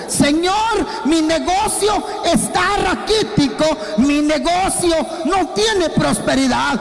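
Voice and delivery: mock shouted plea to God; pleading prayer. Manuel demanding God's blessing, shouted plea.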